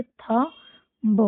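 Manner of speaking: थंब stretched very slowly; slow syllable by syllable; drawn-out model word. Shown as a demonstration. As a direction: draw out थंब for children to follow. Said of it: "क्या पढ़ेंगे".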